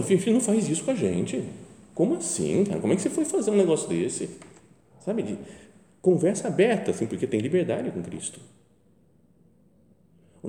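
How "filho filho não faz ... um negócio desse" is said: higher, pleading desperate mother. Retold or imitated. A frantic mother pleading with her son, pitched high. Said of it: "como uma mãe desesperada".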